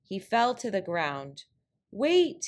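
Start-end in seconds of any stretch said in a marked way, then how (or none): 1.9-2.4 high, loud cry of wait. Acted. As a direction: call out in alarm. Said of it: "he cried out".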